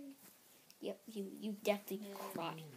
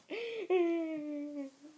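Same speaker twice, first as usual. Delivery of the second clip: higher, drawn-out whimper; mock whining cry; 5 semitones higher than usual. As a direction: whine like a crybaby. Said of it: "Stop crying like a whiny".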